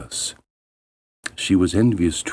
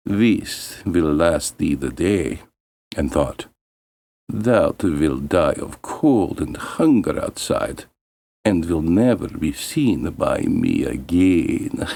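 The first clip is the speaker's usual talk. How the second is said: slow cold stepmother voice; lightly voiced spiteful stepmother; stepmother's malice; 3 semitones lower, slower than usual. Stepmother's cruel words and thought.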